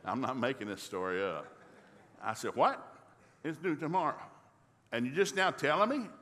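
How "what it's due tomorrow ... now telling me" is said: higher-pitched mock disbelief; exasperated, raised-pitch questioning; incredulous dad. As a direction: act out a dad caught off guard. Acted shocked dad confronting daughter.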